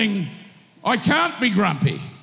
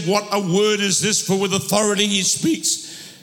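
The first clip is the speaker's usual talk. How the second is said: voice giving out. Real, not acted. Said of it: "There's my throat's gone".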